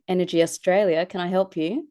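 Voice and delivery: Australian blended with own accent; half-hearted Australian accent. Shown as a demonstration. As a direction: hold back on the Australian accent. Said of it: "that's a hybrid between my own accent".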